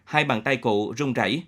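ordinary delivery, nothing marked

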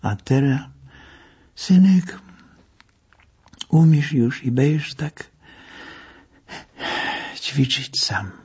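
tender, halting words to his patient; old doctor softening at the end; warmer, with effort. A narrator's reading. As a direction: let him go, fondly and with difficulty. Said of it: "jakoś cieplej, z trudem".

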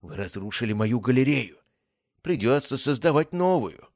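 high, excited monster taunt. Acted. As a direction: gloat like a giddy spider creature. The weaver taunting heroes.

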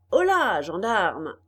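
commanding holler; calling out. A narrator's reading. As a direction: call the guards over sharply. Puppet master calls his gendarmes.

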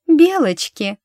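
high, loud mocking reply; gleeful taunt; mocking smile. A narrator's reading. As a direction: savour the word with a sneer. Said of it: "с глумливой улыбкой ответила".

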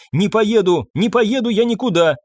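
put-on girl begs to stay, voice rising; pleading refusal. A narrator's reading. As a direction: refuse to leave, near tears. Maria refuses, clinging to him.

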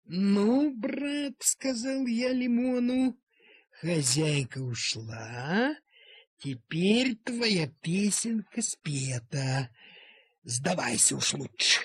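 lightly voiced threat to scare the bully; playful intimidation, drawn out; mock threatening. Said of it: "чтобы хорошенько припугнуть забияку".

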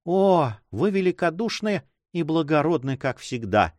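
exclaimed praise. A narrator's reading. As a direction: cry out in gratitude. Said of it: "вскричала она". (восторженное восклицание)

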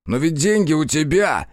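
loud, high outcry; exclaiming. A narrator's reading. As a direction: cry out in protest. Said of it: "воскликнул он".

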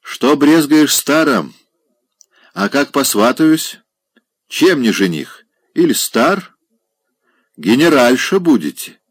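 high, loud, slow mocking suitor voice; teasing old general. A narrator's reading. Old general mockingly proposes to Polina, high and loud. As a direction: tease her as a brash old general.

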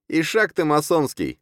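high, gleeful taunt; guffawing jeer. A narrator's reading. Drunkard mocking the khan from a window, hooting. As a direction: jeer it merrily. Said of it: "гоготал Ерошка".

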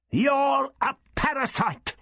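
high, drawn-out cry of realization; exclaiming. A narrator's reading. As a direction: exclaim it as the truth dawns, pitch leaping up. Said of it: "he exclaimed".

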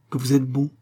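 a lightly voiced grateful cry; cry of relief. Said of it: "Ce cri, c'était un cri de délivrance".

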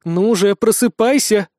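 rising from whisper to firm call. Acted. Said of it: "Голос стал громче и увереннее".

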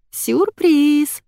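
high drawn-out announcement; drawn-out surprise. A narrator's reading. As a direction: stretch the word out playfully. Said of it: "протянула Вика".

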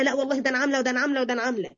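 fast mock brag, tumbling out; rattled-off boasting. Preacher mimics a wronged woman bragging of revenge, very fast. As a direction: rush through it like a gloating list.

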